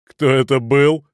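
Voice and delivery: mock them with a laugh in it; guffawing. A narrator's reading. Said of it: "заржал Кранер".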